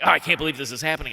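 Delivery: a touch of fuming rant, rushed. Retold or imitated. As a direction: sputter it out, fuming. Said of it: "I'm fuming".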